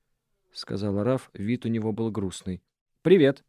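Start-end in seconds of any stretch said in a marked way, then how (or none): 3.0-3.4 громкое «Привет». Acted. Ответ Шаны, резкий подъём.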